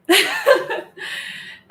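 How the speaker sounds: a short high laugh. Real, not acted. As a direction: laugh off the awkward moment. Nervous laugh after "yeah.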